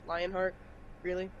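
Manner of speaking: understated deadpan disbelief; dry, unimpressed deadpan question. Acted. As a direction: deliver it totally deadpan. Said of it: "with the most deadpan face possible".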